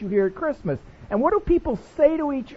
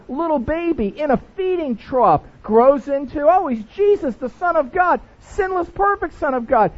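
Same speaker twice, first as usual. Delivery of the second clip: louder, higher smug rundown of the story; know-it-all; 6 semitones higher, 4 dB louder than usual. Retold or imitated. Mocking a churchgoer who finds the story boring, loud and smug. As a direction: rattle it off like it's old hat. Bored churchgoer rattling off gospel.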